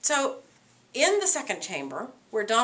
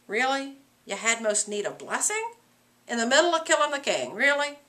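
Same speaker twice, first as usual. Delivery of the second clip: incredulous. Real, not acted. Teacher incredulous at Macbeth.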